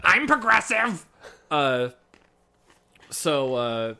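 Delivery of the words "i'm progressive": high, drawn-out proclamation. Retold or imitated. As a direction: proclaim it high and slow, hammed-up. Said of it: "one of those loud lesbian friends".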